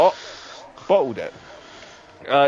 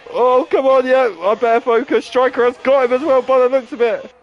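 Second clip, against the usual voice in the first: higher, urgent live commentary; excited race commentary; 8 semitones higher, 4 dB louder than usual. Real, not acted. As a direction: react to a last-lap overtake. Last-lap pass in live race.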